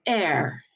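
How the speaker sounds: "air" ending in a raspy French r; French letter R, rasp at the end of "air". Shown as a demonstration. Teacher showing French R, "air" with raspy ending. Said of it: "nice kind of raspiness".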